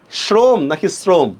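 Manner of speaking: first শ্রম as "shrom", second শ্রম as "srom", slowly; slow contrast of শ্রম with sh, then শ্রম with dental s. Shown as a demonstration. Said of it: "উচ্চারণ আমরা কি করতেছি".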